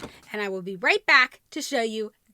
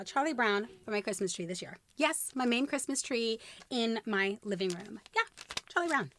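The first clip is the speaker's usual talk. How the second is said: ordinary talk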